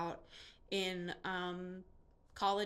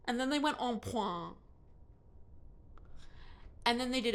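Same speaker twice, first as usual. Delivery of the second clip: put-on hamming up a French accent on the ballet words; mock French accent; 3 dB louder than usual. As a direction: mimic the narrator's overdone French accent. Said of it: "she did it in a French accent".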